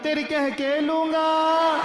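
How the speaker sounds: high, loud, slow movie-villain threat; filmi threat. Pretend. Comic shouting a Wasseypur threat at the screen, hammed-up. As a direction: bellow it like a gangster hero. Iconic Faizal threat, acted.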